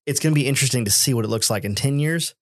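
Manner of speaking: talking through a yawn; words stretched by a yawn. Real, not acted. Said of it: "Don't be yawning".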